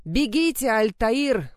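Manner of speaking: high, loud roar. A narrator's reading. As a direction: roar the order to flee. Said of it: "проревел капитан".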